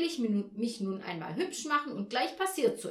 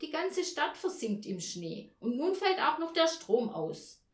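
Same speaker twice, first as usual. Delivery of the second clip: higher, louder, aggrieved rant; snapping tirade; 5 semitones higher, 6 dB louder than usual. A narrator's reading. Mother to Olaf about her ruined evening, snapping tirade. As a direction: pour out the frustration, raised and forceful. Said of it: "fuhr Frau Janka ihn an".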